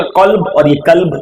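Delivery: slow, careful قلب then کلب; two similar words. Shown as a demonstration. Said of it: "بولنے میں تو وہی لگے گا". (قلب اور کلب کا فرق آہستہ ادا کریں)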